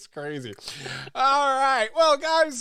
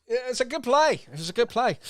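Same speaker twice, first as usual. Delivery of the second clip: mock Scottish accent, higher and louder; 12 semitones higher, 6 dB louder, faster than usual. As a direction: keep up the Scottish play-goer voice. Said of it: "I just went with an accent".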